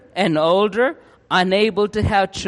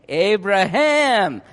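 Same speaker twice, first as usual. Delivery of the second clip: slow, proud drawn-out Abraham; proud name; 2 semitones higher, much slower than usual. Acted. Abraham proudly tells the townsfolk his new name, slow and proud. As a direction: savour the new name, slowly.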